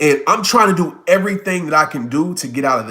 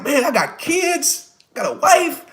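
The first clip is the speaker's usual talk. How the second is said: high-pitched, drawn-out comic pleading; mock panic; 10 semitones higher than usual. Retelling his dread before the skydive, high mock-panicked protest.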